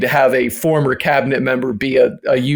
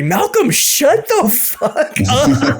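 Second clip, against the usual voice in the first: slow, drawn-out, high mock commenter voice; mock angry commenter; 10 semitones higher, much slower than usual. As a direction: sneer it like a troll comment. Imagined hostile comment voiced.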